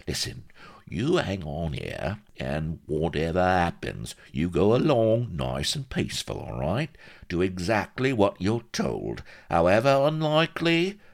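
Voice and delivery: lightly voiced small-time fixer; scheming shyster. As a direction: lay out the plan, conspiratorial. Shyster instructs the captain.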